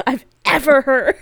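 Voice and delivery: loud laughing exclamation; laughing shout. Real, not acted.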